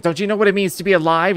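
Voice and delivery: lightly hammed-up anger; mock angry. Retelling the angry stranger's outburst, mock anger. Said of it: "he was getting really angry".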